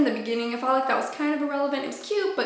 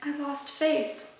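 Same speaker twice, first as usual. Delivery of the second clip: soft quoted line; 6 dB quieter, slower than usual. Retold or imitated. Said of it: "she was like".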